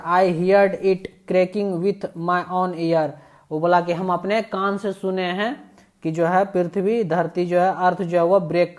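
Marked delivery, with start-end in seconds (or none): 0.1-3.1 slow, deliberate read-aloud of the English text; slow story reading. A narrator's reading. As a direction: read each phrase slowly, as if to a class.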